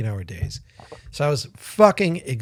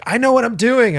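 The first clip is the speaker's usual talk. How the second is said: higher-pitched mock confidence; cocksure sister; 10 semitones higher, 4 dB louder than usual. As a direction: imitate a breezily overconfident younger sister. Sister's cocksure claim before the trip.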